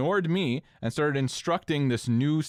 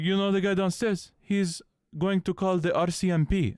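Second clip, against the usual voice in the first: a lightly voiced, somewhat higher mock guard; imitating the security guard; 6 semitones higher than usual. Mimicking the roof security guard warning her, lightly voiced. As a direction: put on the guard's ominous tone. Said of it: "'Cause that's what he sounded like".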